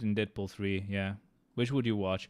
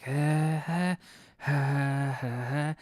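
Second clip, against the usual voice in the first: nasal breathy laughs; 4 semitones higher, much slower than usual. Retold or imitated. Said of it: "like, nasally voice".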